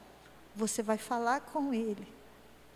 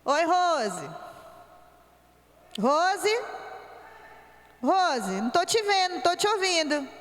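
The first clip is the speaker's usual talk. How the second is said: calling an absent friend; 3 semitones higher than usual. Shown as a demonstration. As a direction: call out to a friend who doesn't answer. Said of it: "Agora presta atenção, outra coisa". (chamando a amiga ausente, mais alto)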